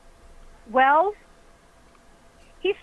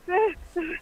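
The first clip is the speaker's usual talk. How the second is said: mock out-of-breath panting; 4 semitones higher than usual. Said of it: "you know, like that".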